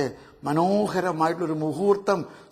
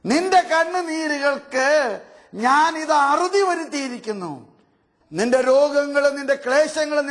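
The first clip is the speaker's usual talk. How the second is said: voiced Jesus; 5 semitones higher than usual. Voicing Jesus consoling Mary.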